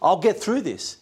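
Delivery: breezy, fast and brushed off; hammed-up proud shrug; proud dismissive. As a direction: toss it off like a proud man who needs no one. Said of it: "The man who is full of pride said".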